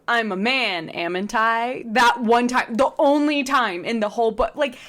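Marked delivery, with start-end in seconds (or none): 0.1-1.8 cartoonish Scottish turn of phrase; Scottish accent. Shown as a demonstration. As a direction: switch into a put-on Scottish accent. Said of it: "but then he'll switch to".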